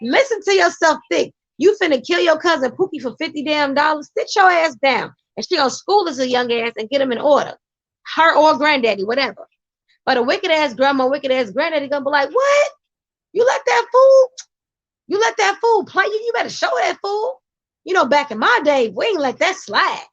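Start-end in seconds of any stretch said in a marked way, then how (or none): 0.0-5.1 a hint of a stern grandma, opening with a shouted "Child"; scolding grandma. 12.3-17.4 egging-on granddaddy. Retold or imitated.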